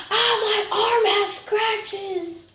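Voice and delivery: high, slow mock wail; retold screaming. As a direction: imitate a hurt classmate wailing, high-pitched. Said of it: "thing screaming".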